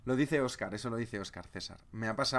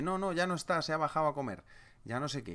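evasive mock counterpart; 4 semitones higher than usual. Japanese side dodging the call.

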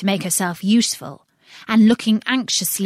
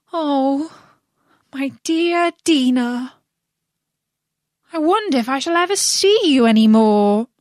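tearful; 5 semitones higher, 4 dB louder than usual. Acted. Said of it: "poor Alice began to cry again".

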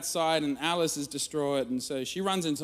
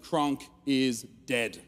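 solemn headline; 3 semitones lower, much slower than usual. Retold or imitated. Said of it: "Like a Time magazine cover".

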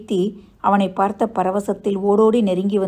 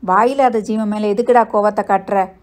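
raised, protesting rebuke; reproach; 2 semitones higher, 4 dB louder than usual. Acted. Family rebuking him for hitting the dog, reproach. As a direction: scold him for his cruelty.

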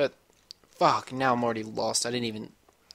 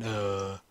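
put-on low groan like an old man; 4 semitones lower, 4 dB quieter than usual. Gamer shows how he moves instead of sprinting, old-man groan. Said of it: "like an old man".

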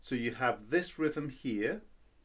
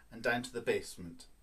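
quick and low; 2 semitones lower, faster than usual. Shown as a demonstration. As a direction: drop fast to the basement.

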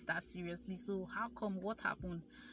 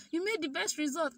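excited news; 8 semitones higher, 3 dB louder than usual. Retold or imitated. Teacher announces the result.

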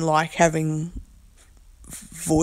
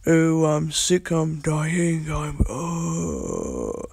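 slow, drawn-out mock groan, trailing off; mock sick moaning; 2 semitones lower, much slower than usual. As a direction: moan like a hammed-up invalid. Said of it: "I ain't feeling like".

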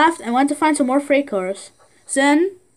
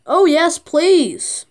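higher, bright eager yes please; eager little engine; 5 semitones higher, 3 dB louder, much slower than usual. Acted. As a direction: jump at the chance like a small eager engine. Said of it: "said Edward".

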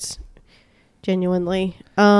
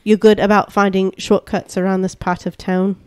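New Zealand accent; 2 semitones lower than usual. Shown as a demonstration. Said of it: "Say my beard is good".

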